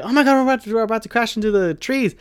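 high, mock panicked warning from a friend; imitating a scream. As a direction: imitate a friend yelling about trees ahead. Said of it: "Abby screaming".

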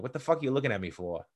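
quick Boston accent with mild attitude; angry Boston accent. Shown as a demonstration. Demonstrating the key to a good Boston accent, angry attitude. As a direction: drop the R's, Boston accent with a chip on the shoulder. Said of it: "it's always this kind of angry attitude".

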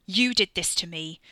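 angry shout. Acted. Wes shouts during fistfight.

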